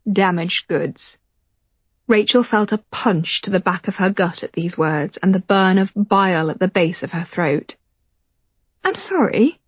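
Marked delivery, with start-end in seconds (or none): 0.1-1.2 contemptuous. Acted. Michael's contemptuous verdict. 8.8-9.6 higher, small apology; Rachel hurt. Acted.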